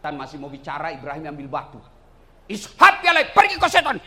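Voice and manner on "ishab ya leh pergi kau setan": loud, high command to be gone; acted shout driving off the devil; angry shout. Ibrahim drives Satan away in story. (bentakan keras mengusir setan)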